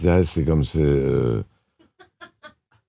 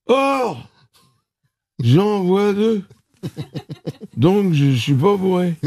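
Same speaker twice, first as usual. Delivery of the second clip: put-on high, slow drunken insisting; drunk dialing; 9 semitones higher, slower than usual. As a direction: play the tipsy customer arguing slowly. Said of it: "je lui dis".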